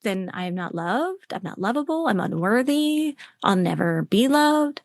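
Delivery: slow, understated voice of hurt belief; heavy inner voice. Acted. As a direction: say it slowly, mildly downhearted. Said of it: "something heavy in there that says".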